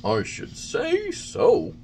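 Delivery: put-on high wooden-boy voice, anxious; high puppet boy. A narrator's reading. Pinocchio answering the carabineers, anxious and high.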